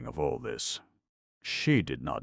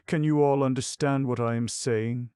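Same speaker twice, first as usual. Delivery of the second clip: tender big sister; 9 semitones higher, 5 dB louder than usual. A narrator's reading. Maria addressing frightened children.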